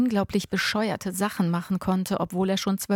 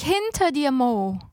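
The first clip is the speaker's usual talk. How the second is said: panicked second cry; frantic scream; 7 semitones higher, slower than usual. A narrator's reading. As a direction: scream it even more desperately. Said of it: "schrie ich".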